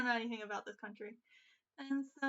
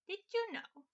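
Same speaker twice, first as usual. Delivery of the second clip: "Did you know?" retried much higher and louder, "you" stressed; higher husk voice; 9 semitones higher, 4 dB louder than usual. Acted. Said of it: "That was a little too low".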